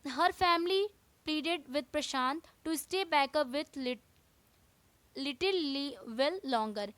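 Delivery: slow, careful textbook reading; teacher reading the chapter to students, slow and deliberate; reading aloud. Acted. Teacher reading the English lesson to class, slowly.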